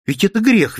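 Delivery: flaring reproach. A narrator's reading. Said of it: "вспыхнула Анна Савишна".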